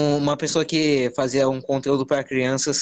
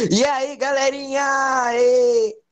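put-on shrill, very high, stretched-out influencer-style yell; 12 semitones higher than usual. Mocking youtubers who shout: imitating a shouting youtuber. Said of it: "aqueles youtuber que fica tipo".

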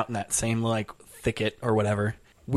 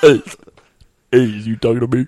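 very deep voice, louder; 9 dB louder than usual. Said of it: "smallest bird with the deepest".

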